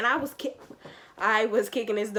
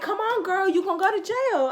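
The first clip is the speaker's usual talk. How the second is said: imitating the pushy lady; 10 semitones higher, 4 dB louder than usual. Lady pushing her into car.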